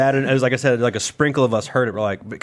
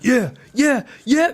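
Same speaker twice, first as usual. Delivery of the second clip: hype; 11 semitones higher, much slower than usual. Retold or imitated. Hyping the crowd after rap.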